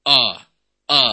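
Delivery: a pushed over into o; overdone hamzah. Shown as a demonstration. Teacher showing the over-stressed wrong a. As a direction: overdo the a until it becomes o. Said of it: "Nah, ini salah".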